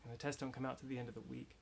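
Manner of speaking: muffled behind a face mask; talking through a mask. Real, not acted. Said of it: "I'm wearing a mask right now".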